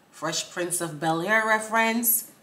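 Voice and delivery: ordinary talk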